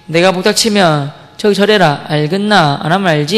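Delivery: slow, measured mock threat; acting out a bully's slow warning; retold threat. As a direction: lay down a threat unhurriedly. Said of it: "그래서 제가 위협하는 거예요".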